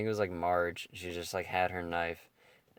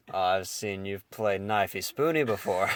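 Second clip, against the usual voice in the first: laughing quote; 4 dB louder than usual. Retold or imitated. Quoting while laughing.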